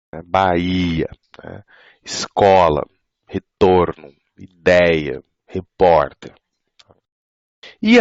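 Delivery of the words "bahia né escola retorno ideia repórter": 'Bahia, Escola, retorno, ideia, repórter' each stressed on the second-last syllable; penultimate stress. Shown as a demonstration. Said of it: "penúltima sílaba".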